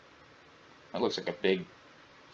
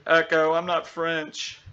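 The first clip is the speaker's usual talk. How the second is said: slow, raised, high-pitched complaint; protest to assistant; 6 semitones higher, 4 dB louder, slower than usual. Pretend.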